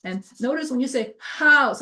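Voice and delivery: house with a strong breathy h; exaggerated house. Shown as a demonstration. Teacher exaggerating house for the class. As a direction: overdo the h in house. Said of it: "of course, I'm exaggerating".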